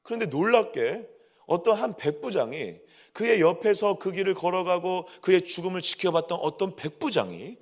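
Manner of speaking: ordinary talk, nothing marked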